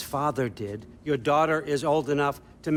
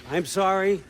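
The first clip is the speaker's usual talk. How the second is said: raised, higher and louder demand; tense confrontation; 5 semitones higher, 5 dB louder than usual. Acted. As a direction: challenge him sharply. Wife confronts unwelcome guest.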